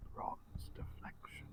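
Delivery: creepy, eerie, very quiet whisper. Describing an aura a player feels on entering: eerie whisper. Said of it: "like a whispering in your ears going".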